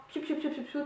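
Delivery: light run of "piou" noises; imitated product sound. Shown as a demonstration. Showing how she puts cream in her palm, playful squirty noises.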